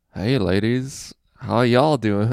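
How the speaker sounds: put-on awkward guy voice. Retelling how a guy holding wine walked up to some women, imitating an awkward guy. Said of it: "just an awkward like".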